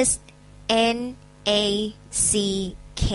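สะกดทีละตัว S N A C K; ออกเสียงทีละตัวอักษร S N A C K ช้าๆ; spelled out. Shown as a demonstration. (สะกด snack ทีละตัว)

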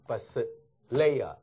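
"but sit LAYER", the weight landing on "lay"; stress on LAYER. Shown as a demonstration. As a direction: keep "but sit" light, then hit LAYER. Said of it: "重音在这里". (but sit layer重音在layer)

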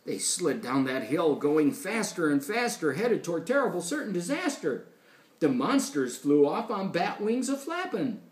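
lilting rhymed storytelling; animated read-aloud to a child; story reading. A narrator's reading. Reads rhyming story.

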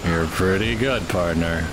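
John Wayne impression. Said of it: "John Wayne impression".

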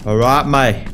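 put-on half-hearted Australian accent; bad Aussie accent. Player mimicking an Australian hero, shaky-attempt Aussie accent. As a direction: try a clumsy bit of Aussie. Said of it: "my Australian accent sucks".

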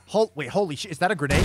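loud startled high alarm; surprised. Acted. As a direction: caught off guard, loud. Sudden grenade spotted.

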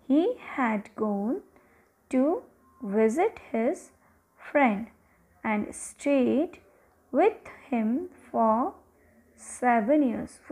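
slow, word-by-word read-aloud; dictation-style story reading. Acted. Teacher reading an English story to pupils, slow dictation style. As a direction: read slowly with pauses between phrases.

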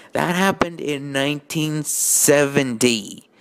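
slow exasperated nitpick; pedantic correction. Real, not acted. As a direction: set the record straight slowly. Correcting the story.

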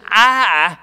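"I" stretched out and stressed; emphatic I. Acted. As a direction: lean hard on "I". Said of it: "that's an emphatic pronoun".

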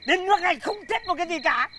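despairing outburst. Acted.

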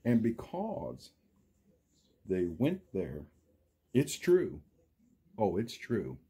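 lively storybook read, big rises and falls; reading to children. A narrator's reading. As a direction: read it like story time for little kids.

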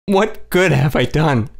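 slow, tearful question. A narrator's reading. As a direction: let it fall heavy with tears. Continues sobbing.

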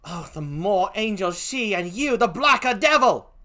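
indignant put-on British accent; British-accented accusation, rising at the end; Emilia. Gentlewoman condemns the killer, indignant in a British accent. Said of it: "please forgive my poor British accent".

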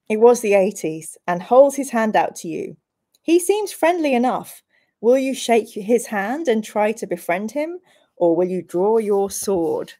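storyteller reading an adventure aloud; lightly dramatic story reading; gamebook narration. Acted. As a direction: narrate the quest to the players.

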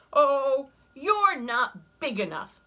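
loud, high, slow and sneering; scornful ladybug voice. Acted. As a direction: dismiss them from up high.

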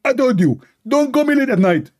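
high-pitched, irritated put-on voice; mock-annoyed, high telling-off; Allah. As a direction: scold the caller in a high comic voice. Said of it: "Allah, he answered".

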